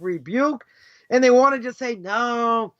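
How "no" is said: mocking permissive voice. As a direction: ham up the easygoing do-gooder.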